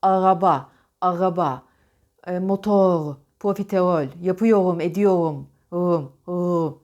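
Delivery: R softened to a throaty glide, like "ağaba" for "Araba"; "motor" and "profiterol" with Rs melting away; untrilled R. Shown as a demonstration. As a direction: swallow each R without any tongue trill. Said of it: "Titremiyorsa şöyle çıkar R'ler".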